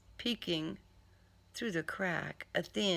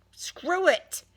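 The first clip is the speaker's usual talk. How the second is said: higher, louder exasperated snap; fed-up outburst; 11 semitones higher, 4 dB louder than usual. Acted. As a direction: throw up your hands. Giving up on the car.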